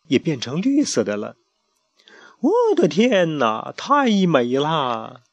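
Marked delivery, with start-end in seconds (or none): 2.4-5.2 slow, hushed marvelling; entranced awe. Acted. Luspero gazing at the scarab, slow entranced awe. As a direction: breathe it out, spellbound.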